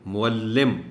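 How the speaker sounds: معلم with a clear doubled l; clear pronunciation. Shown as a demonstration. Teacher repeats معلم for the class. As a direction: say معلم as mu-al-lim. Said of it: "بہت دفعہ پڑھ چکے ہیں".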